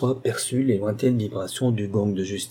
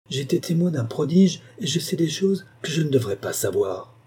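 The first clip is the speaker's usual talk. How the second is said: put-on girl's voice; 4 semitones higher than usual. Girl explains.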